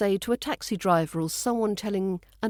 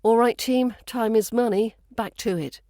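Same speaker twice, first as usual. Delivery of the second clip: half-joking rallying call, opening louder; 2 semitones higher, 4 dB louder than usual. Shown as a demonstration. To the team when tea breaks run long, half-joking. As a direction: gently chivvy the team back to work. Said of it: "often said half-jokingly in British workplaces".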